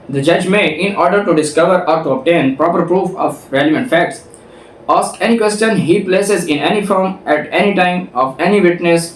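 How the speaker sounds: slow, deliberate reading of legal text; reading the statute. Shown as a demonstration. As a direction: read each clause out slowly, like a law book. Reads statute text aloud.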